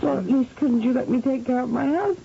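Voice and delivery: pleading while crying; crying plea. Acted. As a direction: plead through tears for her husband. Begging captor, crying for husband.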